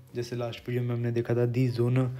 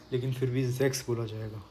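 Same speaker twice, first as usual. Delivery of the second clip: whisper; 6 dB quieter than usual. Real, not acted. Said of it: "explains z sound".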